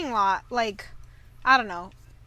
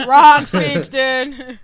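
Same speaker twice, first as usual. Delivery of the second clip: loud mock whisper; 11 dB louder, much slower than usual.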